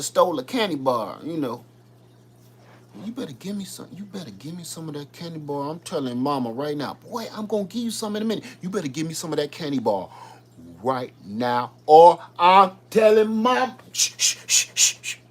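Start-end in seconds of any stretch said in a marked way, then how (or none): 3.0-13.8 put-on whiny kid demanding candy; whiny tattling little sibling. 13.9-15.2 loud shushing hiss; loud hushing. Retold or imitated. Hushing the sibling.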